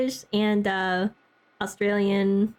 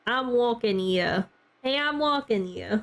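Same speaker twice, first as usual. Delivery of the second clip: lightly put-on New York accent; playful movie-quote delivery with dropped r's; Christopher Walken; slower than usual. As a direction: toss off a mock New Yorker's catchphrase. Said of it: "Christopher Walken Eatsy here".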